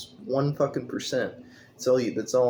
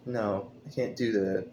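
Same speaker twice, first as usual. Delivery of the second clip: robot voice; 5 dB quieter than usual. Retold or imitated. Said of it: "It's like fucking Siri".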